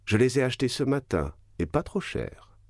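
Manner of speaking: plus aigu puis lent, faussement candide; fausse innocence. Acted. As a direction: jouer l'innocent avec malice. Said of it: "en jouant l'étonnement". (le comte feint l'étonnement devant la baronne, faussement candide)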